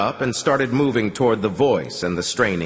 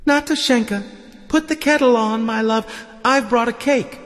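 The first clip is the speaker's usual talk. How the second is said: very high, sing-out voice to a wife; high-pitched delirious homecoming call; delirious raving husband; 3 dB louder than usual. Acted. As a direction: rave fondly in a high voice.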